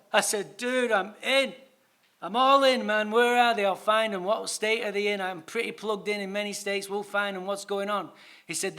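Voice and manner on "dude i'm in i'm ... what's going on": eager excitement. Retold or imitated. Eager offer to help.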